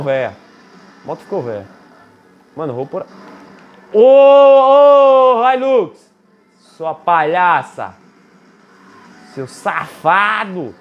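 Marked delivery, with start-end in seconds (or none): 3.9-6.1 loud, high call-out; yelling at a car. Real, not acted. Gamer yelling at a Hilux that cuts him off, loud high call. 6.6-10.7 slow, drawn-out teasing insult; mock scolding. Real, not acted. Gamer teasing the Hilux, slow drawn-out mock insult.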